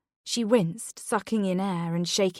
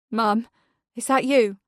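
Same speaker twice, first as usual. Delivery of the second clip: put-on higher, louder child's call; 3 semitones higher, 6 dB louder than usual. A narrator's reading. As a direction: call through the door hoping. Child behind locked door.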